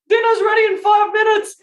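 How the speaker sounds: high mock mum shouting. Mum shouting to her son upstairs, high mock shout. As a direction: belt it out like a mum from the kitchen. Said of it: "Mum's like".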